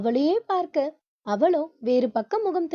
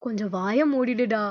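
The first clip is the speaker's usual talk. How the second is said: muttering with a laugh; 7 semitones lower than usual. A narrator's reading. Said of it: "சிரித்தபடியே முணுமுணுக்க".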